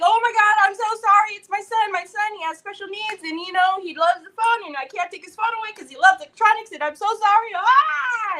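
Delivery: high, rushed, babbling apology; imitating a flustered, wailing mother; mock blubbering. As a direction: blubber apologies in a hammed-up panic. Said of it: "a blubbering".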